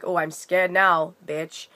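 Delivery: slow, sneering oh I'm scared now, dropping off on bitch; mock hostile sarcasm. Shown as a demonstration. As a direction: say it as a nasty sarcastic challenge. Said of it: "I wasn't saying it like".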